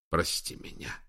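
low whispered plea. A narrator's reading. Broken admiral asking forgiveness before shooting himself, whispered. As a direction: whisper it under your breath. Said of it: "прошептал он".

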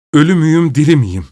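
shouted high and loud in panic; shouting. A narrator's reading. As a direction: cry it out, waking from a nightmare. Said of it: "diye bağırdı".

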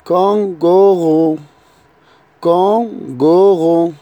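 كونغورو stressed on its last syllable; كونغورو, careful classroom delivery; French kangourou. Shown as a demonstration. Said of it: "كونغورو أو كانغورو".

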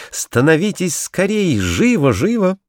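eager hurrying. A narrator's reading. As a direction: hurry them into place. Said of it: "закричал Курилка".

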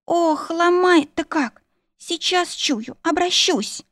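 high, slow, drawn-out wail; moaning in pain. A narrator's reading. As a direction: groan slowly, as if being racked. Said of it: "простонала я". (протяжно стонет, будто ломает)

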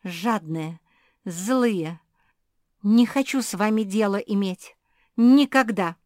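building to a loud yell; angry shout. Acted. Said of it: "закричала Зефирка".

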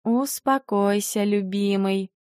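slow, soft and tender; calm him down gently; wife softly soothing her husband in an embrace. Acted.

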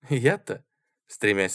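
ordinary delivery

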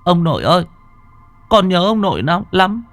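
high, loud tearful cry. A narrator's reading. Boy bursts into tears seeing grandfather, high tearful cry. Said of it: "Tôi nhìn ông òa khóc".

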